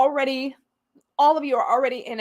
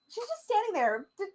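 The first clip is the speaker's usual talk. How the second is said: giggling shoo; 8 semitones higher, 8 dB quieter than usual. Real, not acted. Shooing wife away, laughing.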